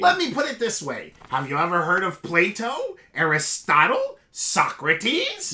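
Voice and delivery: lightly voiced smug Vizzini; a hint of a smug know-it-all. Host lightly voicing Vizzini quizzing the Man in Black. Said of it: "your Vizzini".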